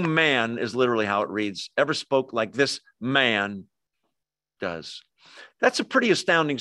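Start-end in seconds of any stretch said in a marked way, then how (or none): 1.8-5.0 "man" drawn out as the key word; measured reading that sets "man" apart; emphasis on man. Shown as a demonstration. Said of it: "is in the emphatic position".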